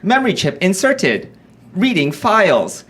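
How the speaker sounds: lightly voiced robot reporting new files. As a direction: announce it like a machine booting up. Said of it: "he talks like this".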